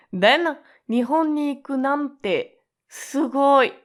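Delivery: high, amazed example read; admiring wow. Shown as a demonstration. Teacher voicing an amazed friend. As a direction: gush with admiration.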